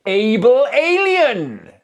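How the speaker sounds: high, loud, crazed shout; manic cry. Acted. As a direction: cry it out, grinning insanely. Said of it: "grinning insanely".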